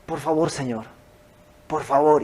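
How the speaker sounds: súplica suave y contenida; ruego imitado. Retold or imitated. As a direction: ruega con humildad, en voz baja. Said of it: "y empieza a rogar". (ruego humilde y bajito)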